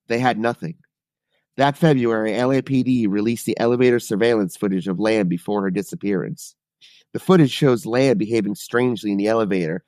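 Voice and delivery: read-aloud case summary; true-crime narration. A narrator's reading. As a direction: narrate the mystery like a prepared report. Reads a true-crime account.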